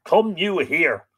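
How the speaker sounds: slow, loud, high replay of the summons; savoured commanding line. Shown as a demonstration. Reader repeats Fionn's summons to the stream, slow and relished. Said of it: "Love it".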